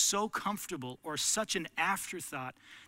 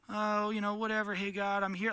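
offhand; 5 semitones higher than usual. Retold or imitated. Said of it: "not just kinda".

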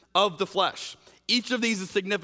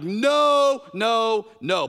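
loud, high, firm no no no; emphatic refusal; 4 semitones higher, 6 dB louder, much slower than usual. Retold or imitated. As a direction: shut it down loudly. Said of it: "Paul's like".

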